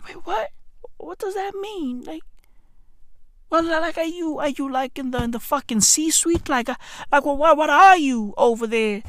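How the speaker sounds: soft, halting confusion; hushed, puzzled questioning; mock bafflement. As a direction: fumble quietly for what the title could mean. Acts out baffled reply to title.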